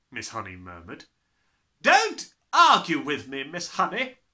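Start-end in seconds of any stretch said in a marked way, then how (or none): 1.8-4.1 very loud, commanding, booming thunder, slow. The headmistress cuts off a teacher's objection in front of the class, thundering. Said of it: "the headmistress thundered".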